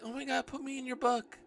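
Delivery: high-pitched fangirl imitation; mock excitement. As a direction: gush like a starstruck fan, mockingly. Mimics eager would-be book subjects.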